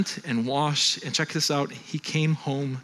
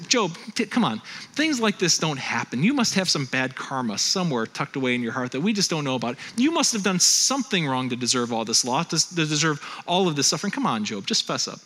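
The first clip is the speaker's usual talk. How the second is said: acted needling friend, pitch dropping toward the end; understated, insistent coaxing; prodding; 2 semitones lower than usual. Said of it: "continue to prod him and needle him".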